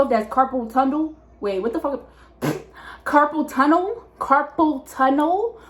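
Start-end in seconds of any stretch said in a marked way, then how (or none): 3.0-4.0 slow questioning rise on "Carpal tunnel"; checking she said it right; unsure of the word. Real, not acted. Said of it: "I think that's the word". 4.2-5.6 slower, drawn-out "Carpal tunnel" rising; doubting the word; lingering puzzled repeat; still unsure. Real, not acted. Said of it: "I think that's the word".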